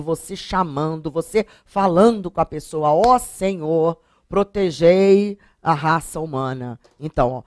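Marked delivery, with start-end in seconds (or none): 2.9-6.8 solene invocação. Shown as a demonstration. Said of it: "você está interpelando o Senhor".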